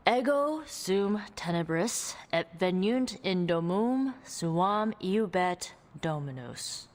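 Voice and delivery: slow, deliberate Latin incantation; incantation recital. Acted. Recites the incantation for Hunter to memorize, slow and deliberate. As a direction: intone the spell word by word, slowly. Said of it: "It goes".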